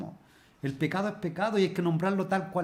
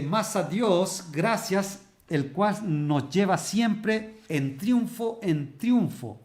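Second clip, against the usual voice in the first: preaching scripture reading; 2 semitones higher, slower than usual. Acted. Preacher reading Corinthians aloud to the church, slow proclaiming. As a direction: proclaim each phrase as a sermon climax. Reads scripture at full force.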